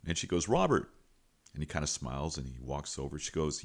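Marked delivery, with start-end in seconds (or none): 0.5-0.9 higher-pitched call of a name, falling; retold call across a weight room. Principal calls out to a student, calling out. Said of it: "she actually calls out to him".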